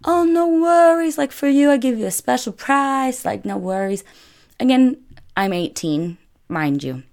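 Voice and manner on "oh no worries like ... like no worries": typical Italian man. Retold or imitated. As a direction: brush off the price question in a high host voice. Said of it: "And he's like".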